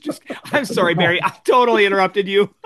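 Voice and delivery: giggling, quick sorry; laughing apology. Real, not acted. Laughing apology after interrupting.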